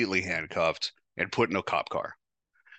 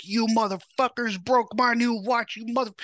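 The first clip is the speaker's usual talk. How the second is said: high, loud furious yell at the cops, dragged out; 3 dB louder than usual. Retold or imitated. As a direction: snap and scream at them over the broken watch. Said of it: "and I snapped out".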